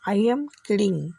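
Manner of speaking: very slow, each word spelled out; slow teaching demo. Shown as a demonstration. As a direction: say it slowly for learners to copy. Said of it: "English में इसको क्या बोलना है". (धीमे-धीमे, साफ़ उच्चारण में)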